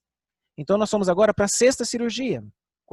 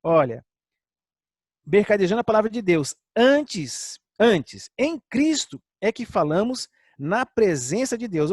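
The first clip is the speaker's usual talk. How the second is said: voicing Paul; 4 semitones higher than usual. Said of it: "Paulo disse".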